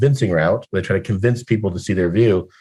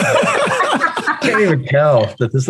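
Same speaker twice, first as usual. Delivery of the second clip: laughing; 11 semitones higher, much slower than usual. Real, not acted. Laughing at a video filter.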